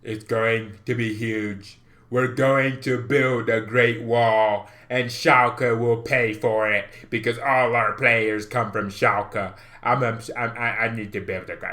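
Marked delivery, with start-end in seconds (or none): 0.0-9.5 Trump impression. Trump parody build a wall.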